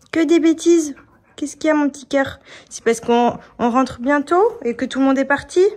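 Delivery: voix aiguë pour parler au chien; talking to the dog. Real, not acted. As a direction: gronder gentiment la chienne, voix haute. Gronde puis console sa chienne. (voix aiguë pour la chienne)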